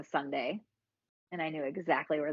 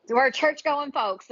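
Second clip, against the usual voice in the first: much higher, louder, slow sing-song parody of pious folks; mocking churchgoers; 9 semitones higher, 7 dB louder than usual. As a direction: ham up the fake church family pride. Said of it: "this whole facade of".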